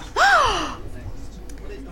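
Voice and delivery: high shocked gasp; sharp gasp. Acted. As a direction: gasp in fright. Gun revealed.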